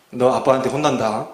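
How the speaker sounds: low, understated scolding warning; imitated parental threat. Parent warning a stubborn child about dad, mild mock threat. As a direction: lightly voice a parent's menacing warning. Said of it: "윽박을 지르고 막 협박 비슷하게".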